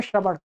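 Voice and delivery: शबड़ with a flapped ड़ at the end; imitating the wrong शबड़; wrong pronunciation. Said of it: "शबड़ नहीं है".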